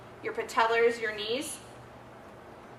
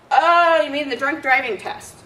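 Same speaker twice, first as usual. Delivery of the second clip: put-on loud, high eager kid; 4 semitones higher, 10 dB louder than usual. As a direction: play a cheeky kid catching on. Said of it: "As some of my kids will say".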